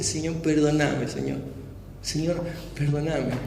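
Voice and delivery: slow, soft and broken, imitating his own tearful prayer. Retelling how he prayed alone in his room, tearful and soft. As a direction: plead quietly for forgiveness, as if crying. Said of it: "me largué a llorar".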